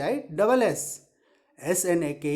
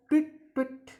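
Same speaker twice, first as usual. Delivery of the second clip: two high, short tweets; teacher imitating a bird's tweet-tweet; 7 semitones higher than usual. Shown as a demonstration. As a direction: chirp like a bird, pitched up. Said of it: "bird कैसे sound निकालता है".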